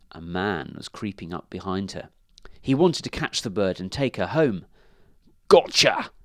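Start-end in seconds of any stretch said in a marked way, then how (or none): 5.5-6.1 loud, high pounce; hunter's gleeful shout; triumphant cry. A narrator's reading. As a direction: cry out as you catch your prey. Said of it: "he cried".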